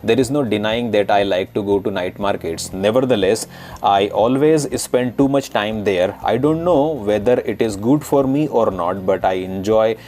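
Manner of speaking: reading an essay in a typical Indian accent, retroflex t and d. Shown as a demonstration. Teacher reads night market essay to Taiwanese learners, in Indian accent. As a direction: demo Indian English read for learners to decode. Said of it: "now I'm gonna read it in typical Indian accent".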